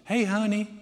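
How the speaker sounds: lightly imitated Southern mom on the phone. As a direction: put on a Southern mother's voice. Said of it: "She's Southern".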